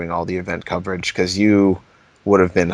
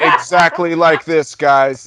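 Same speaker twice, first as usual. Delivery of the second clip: mock DJ voice; 7 semitones higher, 4 dB louder, slower than usual. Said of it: "a D J with a long ponytail going".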